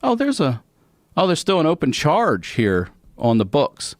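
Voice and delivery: high-pitched, lightly acted judge; imitated judge. Judge finding an open charge, high mock official voice.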